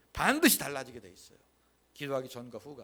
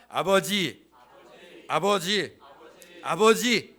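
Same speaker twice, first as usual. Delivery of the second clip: loud calling; 3 semitones higher, 10 dB louder, much slower than usual. Shown as a demonstration. Pastor leads the congregation calling on God, loud. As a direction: call out 아버지 loud and full each time. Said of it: "아버지 세 번 해보겠습니다".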